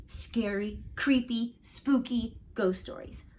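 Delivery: hushed, drawn-out spooky tease; spooky storyteller. Acted. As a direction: make it sound creepy. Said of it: "said Reggie".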